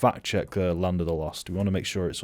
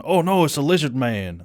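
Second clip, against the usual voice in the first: high, loud mock alarm; hammed-up panic quote, pitched high; Ernie's alarmed cry; 7 semitones higher, 5 dB louder than usual. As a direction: cry out, imitating the movie line. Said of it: "remember the line of Ernie going".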